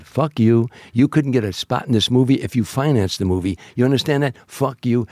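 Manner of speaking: imitating a friend telling him off, mildly heated; a touch of playful fury, quoting the tirade; mock angry rant. Retold angry outburst from Joe.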